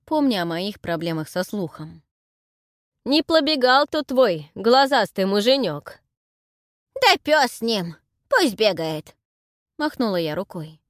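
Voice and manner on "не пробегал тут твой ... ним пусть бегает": loud, slow granny voice; old crone. Acted. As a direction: holler like a deaf old woman. Heroine plays deaf old crone. (громкий старушечий голос)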